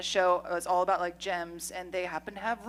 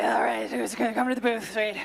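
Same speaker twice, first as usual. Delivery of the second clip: rough smoker voice; 2 semitones higher than usual. Shown as a demonstration. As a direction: rasp it like a heavy smoker. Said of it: "I sound like a smoker".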